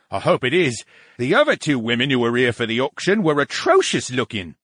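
lightly voiced fussy brain; opinionated talking brain. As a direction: remark cattily in a put-on voice.

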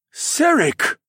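very high, loud warning; urgent call. Acted. Blue-striped man stopping Serik, urgent loud call. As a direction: yank his friend back by voice. Friend restrains angry miner.

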